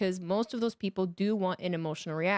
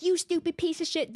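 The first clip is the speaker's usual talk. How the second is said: mock insult; 9 semitones higher than usual. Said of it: "Don't be like".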